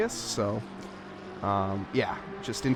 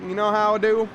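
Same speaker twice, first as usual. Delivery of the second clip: car salesman voice; 3 semitones higher than usual. Acted. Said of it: "being an American car salesman".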